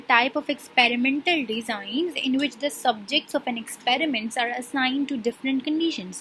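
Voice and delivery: slow, deliberate dictation pace; reading a definition aloud. Shown as a demonstration. Teacher reading a textbook definition to her class, slowly. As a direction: read each word out slowly for students to follow.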